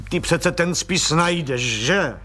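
desperate plea. Acted. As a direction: beg for reassurance. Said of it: "zvolal plukovník zoufale".

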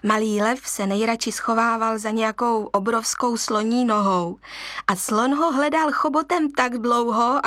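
plain reading voice

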